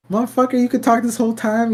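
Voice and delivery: high, fast outraged squawk; pissed-off owl. Retold or imitated. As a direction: yell it like an offended owl. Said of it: "like, pissed off".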